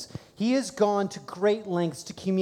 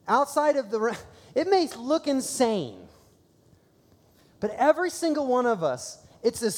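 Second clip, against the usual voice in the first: preaching fervor; 7 semitones higher, 3 dB louder than usual. Real, not acted. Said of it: "preaching climax".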